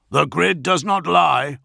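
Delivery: high, emphatic bark; barked retort. A narrator's reading. Augustin contradicts the lion's denial, barking angrily. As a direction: throw the charge back hard. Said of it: "Augustin barked".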